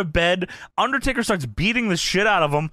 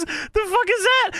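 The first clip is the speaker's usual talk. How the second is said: much higher, baffled squawk; Jerry Lawler voice; 12 semitones higher than usual. Retold or imitated. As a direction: screech the question up high. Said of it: "Jerry Lawler says".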